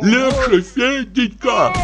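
put-on high, anxious old man pleading; high fretful plea to go easy; fretful Pochechuev. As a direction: call out nervously from the next room. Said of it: "голос Почечуева".

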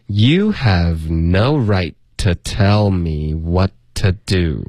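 very slow, careful reading; teacher modelling the line slowly; slow model reading. Shown as a demonstration. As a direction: read it out slowly for students. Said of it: "那我们来读两遍".

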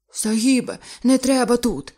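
high, loud pleading; frightened plea. Acted. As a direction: beg in terror. Diver begs in fear.

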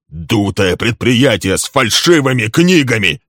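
angry shout. A narrator's reading. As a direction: fling the charge at him. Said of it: "кричал Лесли".

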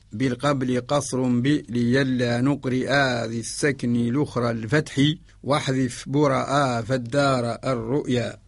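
slow, measured didactic verse; verse recitation. Shown as a demonstration. Teacher recites the verse he has explained, slow recitation. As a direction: recite the memorized rule line slowly.

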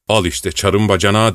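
ordinary delivery, nothing marked

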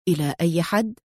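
composed and understated; calm. A narrator's reading. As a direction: ask calmly, without pressing. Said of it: "قال أدهم في هدوء".

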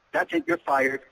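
high, mock-stern joke; playful mock firing. Shown as a demonstration. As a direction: fire her in jest.

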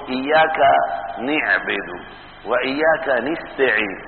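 نعبد said as niʕbid, نستعين as nistaʕīn, with kasra on the nūn; a scholar demonstrating the Tamimi dialect reading with kasra on نعبد and نستعين; Bani Tamim reading. Shown as a demonstration. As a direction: read نعبد and نستعين with an i sound on the first letter, niʕbid and nistaʕīn. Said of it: "وقرئ بكسر النون فيهما".

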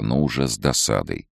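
usual speaking voice

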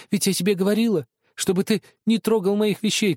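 high, loud angry sister; angry scolding. Acted. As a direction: scold him hard. (гневный упрёк)

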